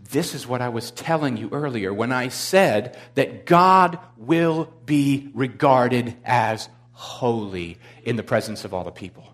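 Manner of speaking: solemn, slow and weighty, word by word; Moses. Acted. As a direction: spell out a grave reminder to Aaron. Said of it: "Moses turns to Aaron and says".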